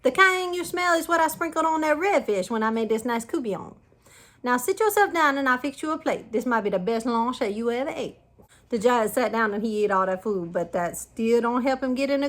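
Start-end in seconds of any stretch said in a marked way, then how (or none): 0.0-8.2 shouting back. A narrator's reading. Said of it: "The lady shout back".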